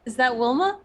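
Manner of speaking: character voice. Pretend. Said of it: "No, I think this is".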